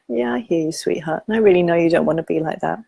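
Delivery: gentle, understanding reassurance; lightly voiced comforting parent; compassionate inner voice. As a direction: soothe as if to a child. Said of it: "my inner compassionate voice".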